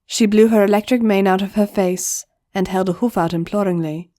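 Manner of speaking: ordinary delivery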